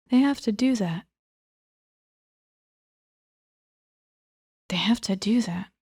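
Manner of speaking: light voice sinking into a whisper; light voice two. Retold or imitated. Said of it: "Voice two".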